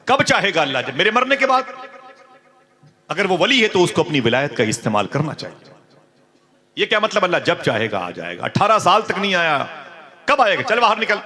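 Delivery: high, loud, shrill-edged outburst; furious yelling. Acted. Wife throwing her husband out, furious yell. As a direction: scream him out the door. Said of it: "उसने डांट के कहा".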